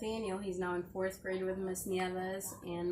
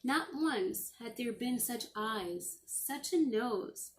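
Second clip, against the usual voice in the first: gentle storybook read-aloud; reading to children. Acted. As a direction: read it like a bedtime story to the class. Teacher reading a picture book aloud.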